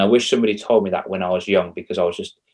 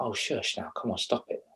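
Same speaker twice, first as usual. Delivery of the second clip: mock brush-off; 13 dB quieter than usual. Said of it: "She's like".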